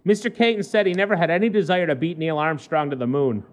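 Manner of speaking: measured newspaper read-aloud; lightly performed human-interest news read; news story read. Acted.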